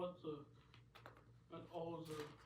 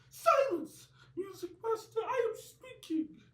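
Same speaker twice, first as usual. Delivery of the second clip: much higher, much louder shrieked order; angry royal shout; 16 dB louder, slower than usual. Acted. Elvis silences Music Master in front of the court, shrieking. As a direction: cut him off like an offended king.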